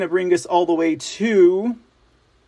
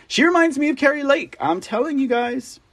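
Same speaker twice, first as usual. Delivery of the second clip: excited; 9 semitones higher than usual. Real, not acted. Excited praise of candidate.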